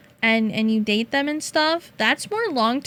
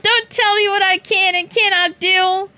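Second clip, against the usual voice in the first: louder, higher defiant protest; hammed-up defiance at the chat; mock defiant outburst; 5 semitones higher, 4 dB louder than usual.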